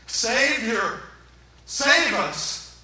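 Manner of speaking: loud, emphatic acted cry; crowd crying out. Preacher acts the crowd around Jesus, crying out. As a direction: call out for rescue. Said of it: "people all around him yelling out".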